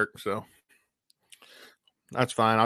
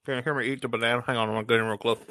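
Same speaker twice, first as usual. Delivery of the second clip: chewing while talking; much faster than usual. Real, not acted. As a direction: mouth full of banana. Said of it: "Yeah, I can still kinda hear you".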